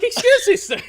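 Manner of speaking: high-pitched pesky NPC stopping the hero; squeaky NPC. Acted. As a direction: squeak it out like a timid townsfolk. DM voices meek NPC.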